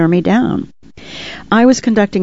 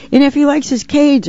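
put-on much higher, eager child's voice; excited little boy; 9 semitones higher than usual. A narrator's reading. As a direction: chime in high like an excited boy. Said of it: "another excited little boy added".

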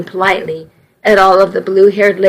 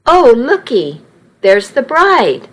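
exclaimed; 4 semitones higher than usual. Acted.

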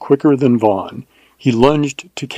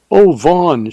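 higher, mildly anguished outcry; distressed cry; 5 semitones higher than usual. A narrator's reading. Shaken woman greeting her rescuer, crying out. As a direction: cry out his name in mild distress. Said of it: "she cried".

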